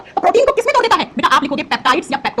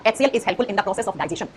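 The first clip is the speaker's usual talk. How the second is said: HCL is helpful in the process of digestion, drawn out slowly; slow dictation; 5 semitones lower, 6 dB quieter, much slower than usual. Shown as a demonstration. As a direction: spell it out slowly for notes. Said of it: "इसीलिए मैंने बोला". (धीमी आवाज़ में लिखवाना)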